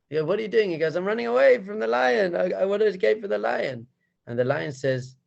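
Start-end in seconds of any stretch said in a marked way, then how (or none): 0.2-0.7 high, loud, incredulous question; incredulous lion. Acted. Lion to the bleating cub, incredulous. 0.9-3.9 high, loud little cub voice; frightened lion cub. Acted. Cub caught fleeing the lion, high and flustered.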